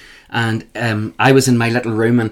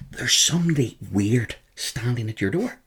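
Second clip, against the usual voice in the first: mock whisper; 9 dB quieter than usual. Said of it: "she just whispered into the room".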